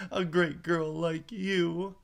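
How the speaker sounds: put-on high, stern scolding girl; Alice scolding herself. A narrator's reading. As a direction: tell yourself off like a strict nanny.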